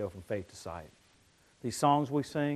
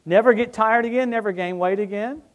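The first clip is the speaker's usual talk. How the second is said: lightly voiced impression of a famous singer, higher and louder; a hint of rock-and-roll swagger; singer impression; 7 semitones higher, 7 dB louder than usual. Shown as a demonstration. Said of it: "I'll do a famous singer on that one".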